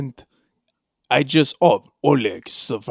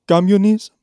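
unsure high guess; 5 semitones higher, 6 dB louder than usual. Acted.

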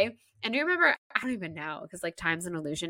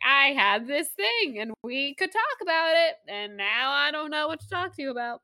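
mom telling her daughter she's lost, mock sad; 8 semitones higher than usual. Mom voiced, feeling lost.

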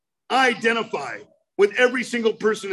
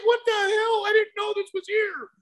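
high, awestruck discovery; amazed wonder; 10 semitones higher than usual. Retold or imitated. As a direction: marvel at a world you never knew. Amazed on leaving the cave.

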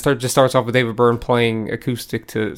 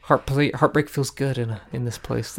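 Nicole Kidman; 2 semitones lower, 7 dB quieter than usual. Retold or imitated. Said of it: "the infamous Nicole Kidman A M C ad".

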